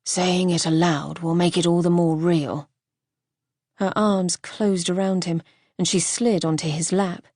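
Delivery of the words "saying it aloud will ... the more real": Archer's voice. Acted. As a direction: hold back the bad news, heavy.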